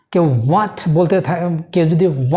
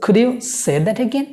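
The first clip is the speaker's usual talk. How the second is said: polite; 4 semitones higher, much slower than usual. Shown as a demonstration. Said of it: "politely বলা".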